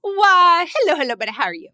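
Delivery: grand mock greeting; playful posh greeting.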